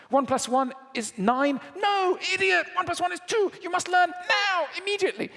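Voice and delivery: high, loud, frantic scolding; panicked angry teacher. Retold or imitated.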